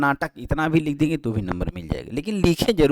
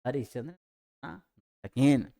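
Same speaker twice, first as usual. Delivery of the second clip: हरिश्चंद्र said softly, then नाटकेन drawn out very slowly; slow dictation; 4 dB quieter than usual. Shown as a demonstration. Teacher dictating the key answer slowly to students. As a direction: spell out हरिश्चंद्र नाटकेन for the class. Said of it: "तो बस इतनी आपको याद करना है".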